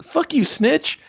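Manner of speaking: very high squeaky mock snap; mock angry wife. Wife snapping at her husband, squeaky and mocking. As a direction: spit it at him, hammed up. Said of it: "She's like".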